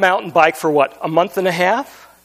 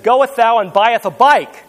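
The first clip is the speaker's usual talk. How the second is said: slow, lightly solemn King James voice, a hint of the Lord; a slow, mock-archaic line read like scripture; King James English. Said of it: "when the Lord speaks in King James English".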